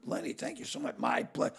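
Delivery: soft, meek thank-you; quietly gushing nerd; grateful nerdy kid. Retold or imitated. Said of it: "the nerdy kids go".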